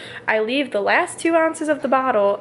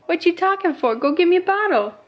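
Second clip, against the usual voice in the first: put-on higher, bossy baby voice; voicing the baby; 6 semitones higher than usual. Mom voicing baby Jackson demanding a bottle.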